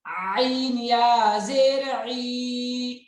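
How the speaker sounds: आइन pressed from the throat with the mouth open, slow; throaty ain. Shown as a demonstration. Teacher showing students the throat sound of ain. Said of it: "गले पर जोर लगाएंगे लेकिन खोल कर मुंह".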